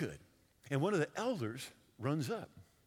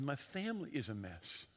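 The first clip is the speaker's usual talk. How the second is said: softly voiced, lower retelling; hushed retold confession; 4 semitones lower, 7 dB quieter than usual. Preacher retelling a troubled woman's confession, hushed. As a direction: quote her distress softly, understated.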